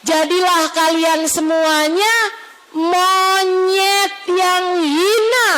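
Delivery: very slow, drawn-out pronouncement; solemn decree. Acted. Preacher voices God's decree to Moses' people, slow and weighty. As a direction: stretch each word like a sentence being passed. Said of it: "kemudian tinggal berkata".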